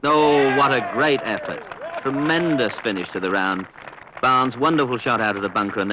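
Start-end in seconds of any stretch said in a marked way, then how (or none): 0.0-1.6 sudden excited cry at the putt. Real, not acted. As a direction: burst out as the putt drops. Match-winning putt drops.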